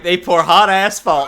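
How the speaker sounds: slow mimic with "hot" and "asphalt" punched; imitating the stress. Friend mimics how the host said "asphalt". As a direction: copy the odd stress on "asphalt". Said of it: "You said, like".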